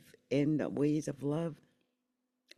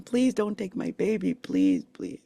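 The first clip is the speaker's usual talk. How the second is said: retold begging; 3 semitones higher than usual. Young mother begging them not to take her daughter, pleading. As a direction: plead as if retelling an old fear. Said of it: "I was begging them".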